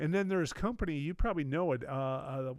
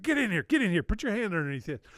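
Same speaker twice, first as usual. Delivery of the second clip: raised, urgent calling over; excited beckoning; 5 semitones higher, 3 dB louder, faster than usual. Retold or imitated. Industry guy calling the teller over to the booth, excited. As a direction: eagerly wave someone in, voice up.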